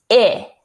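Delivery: "I" as a short "ih"; short I sound. Shown as a demonstration. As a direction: model "I" like the i in igloo. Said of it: "Short I sounds like".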